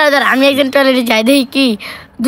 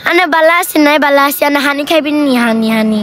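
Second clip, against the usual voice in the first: Noakhali accent, slightly raised pitch; Noakhali-accented Bangla; Noakhali dialect. Shown as a demonstration. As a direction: put on a village Noakhali accent. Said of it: "এগুলো হচ্ছে গিয়া নোয়াখালী ভাষা".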